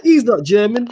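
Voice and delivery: high-pitched mock protest; losing it, imitated. Retelling a streamer arguing over a scorer, mock outrage. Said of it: "he lost it".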